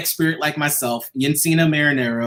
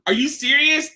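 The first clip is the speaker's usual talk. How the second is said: moved disbelief; 9 semitones higher than usual. Real, not acted. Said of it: "I literally was in tears".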